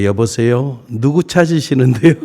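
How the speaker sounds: a hint of someone answering a wrong-number call; Korean phone answerer. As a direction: act out a casual "hello, who's this?" pickup. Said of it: "한국 사람이 받습니다".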